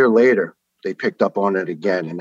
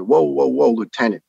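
imitating a doctor's higher, louder objection; retold "hold on there" interruption; mock halting protest; 5 semitones higher, 5 dB louder than usual. Doctor stops lieutenant asking for an exam, mock protest.

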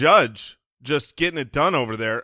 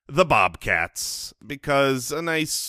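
resigned; slower than usual. Real, not acted. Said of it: "You sound so defeated".

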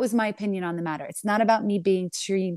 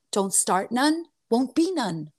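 very calm; slower than usual. Retold or imitated. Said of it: "said to her very calmly".

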